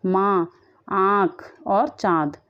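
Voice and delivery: माँ, आँख, चाँद drawn out slowly with the nasal vowel held long; nasal vowel demo. Shown as a demonstration. Teacher shows children the chandrabindu words, slow and nasal. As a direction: stretch each nasal vowel for the class. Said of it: "जिनके ऊपर चंद्रबिंदु लगा हुआ है".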